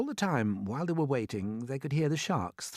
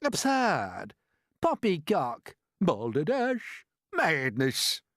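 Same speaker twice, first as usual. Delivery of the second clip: scoffing shouts; 6 semitones higher, 5 dB louder, much slower than usual. A narrator's reading. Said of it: "they shouted".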